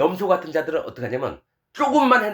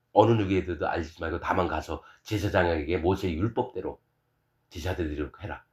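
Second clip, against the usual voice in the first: low, hushed instruction; self-effacing instruction; 9 semitones lower, 6 dB quieter than usual. Acted. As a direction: drop low and soft, keeping it private. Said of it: "자기를 감추셔요".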